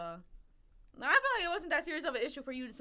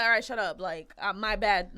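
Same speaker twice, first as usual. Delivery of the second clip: mock a brush-off apology; fake apology; 5 semitones lower, 4 dB louder than usual. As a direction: toss out a half-hearted, insincere apology. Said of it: "it was a fake apology".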